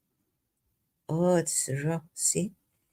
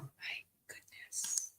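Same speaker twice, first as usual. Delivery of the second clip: whispered; 21 dB quieter, slower than usual. Real, not acted. Laughing at own attempt.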